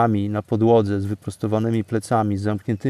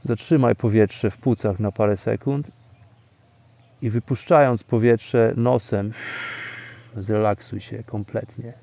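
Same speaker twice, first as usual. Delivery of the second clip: guided meditation; 4 dB quieter than usual. Acted. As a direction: calmly lead them into stillness. Leads breathing, fading calm.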